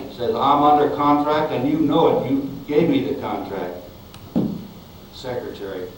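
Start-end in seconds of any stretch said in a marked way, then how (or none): 0.4-3.8 put-on southern accent. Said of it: "he had this very southern accent".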